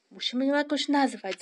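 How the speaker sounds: eager cry; calling out. A narrator's reading. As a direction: call it out to the group, high and loud. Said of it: "zawołała panna Migotka".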